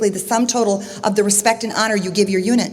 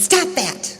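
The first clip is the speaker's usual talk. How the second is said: a hint of a protesting child, higher; lightly voiced annoyed boy; 4 semitones higher than usual. Storyteller as boy scolding the unseen voice, mild childlike protest. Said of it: "And then he says".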